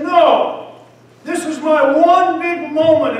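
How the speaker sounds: high, loud, urgent cry; desperate resolve. Acted. Beggar refusing to let Jesus pass, crying out high and loud. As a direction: seize the moment at full voice.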